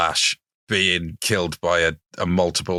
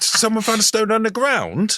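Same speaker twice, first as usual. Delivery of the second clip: mock astonishment; 13 semitones higher than usual. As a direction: gasp at it like a huge discovery. Mock amazement.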